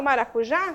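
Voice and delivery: "maracujá" stressed on the final JÁ; stress on last syllable. Shown as a demonstration. Teacher demonstrating an oxytone to students, "maracujá" stressed on já. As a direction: say "maracujá" with the weight on JÁ. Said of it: "sílaba tônica da palavra é uma oxítona".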